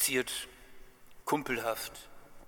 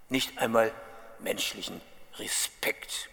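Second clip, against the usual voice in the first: acted mild indignation; offended undertone. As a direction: complain like someone wronged by ungrateful people. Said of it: "kein beleidigter Unterton".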